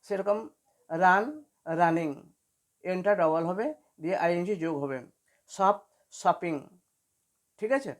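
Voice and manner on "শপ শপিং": very slow, drawn-out example words; slow demo. Shown as a demonstration. Teacher modelling shop and shopping, very slow. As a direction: say each word slowly for the class. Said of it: "teacher demonstrates a word pair".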